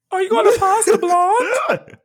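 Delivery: slow hammed-up Bane impression; mock Bane voice. Bane asking friends at dinner, slow mock voice. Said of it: "you got that kind of voice".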